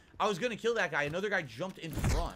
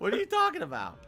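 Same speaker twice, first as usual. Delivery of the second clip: the question broken up with real laughter; laughing; 6 semitones higher than usual. Real, not acted. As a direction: laugh your way through it. Laughing at chat's Die Hard mixup.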